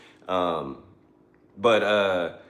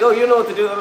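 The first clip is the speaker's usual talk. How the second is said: high, loud imitation of the neighbor insisting; mock her coaxing, pitched way up; pleading neighbor; 12 semitones higher, 7 dB louder, faster than usual. Neighbor urges Beans to take charge, high coaxing voice.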